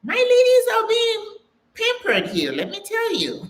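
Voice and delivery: high, laughing, sing-song delight. Real, not acted. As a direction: tease the pampered ladies while laughing. Laughing about pampered ladies.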